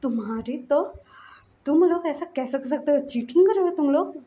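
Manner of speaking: angry outburst. Acted. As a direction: accuse them angrily of cheating. Angry character retold in story. (गुस्से में चिल्लाना)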